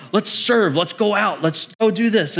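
eager, high-pitched rallying; rally everyone like a keen young believer; imitated excitement. Young believer wanting to do everything, imitated excitement. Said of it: "they're just excited".

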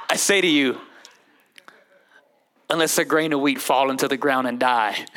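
deep, grave scripture voice; low and measured, prophetic; solemn Jesus voice. Acted. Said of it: "I don't know why I talk like that".

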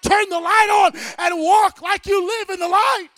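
loud, building preacher's cry; full-force preaching. Real, not acted. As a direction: thunder it at the church.

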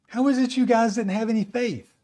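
imitated exasperated teacher; exasperated reproach. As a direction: chide them in mock disbelief. Jesus chiding the disciples.

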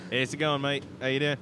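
friendly put-on Australian; Aussie accent. Host greeting a mate, Aussie accent. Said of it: "I'm talking Aussie".

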